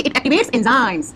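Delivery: it activates enzymes, every word slow and spaced for writing; slow dictation. Shown as a demonstration. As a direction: dictate it slowly so they can write. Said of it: "आपको लिखना है कि". (धीमे-धीमे लिखवाते हुए)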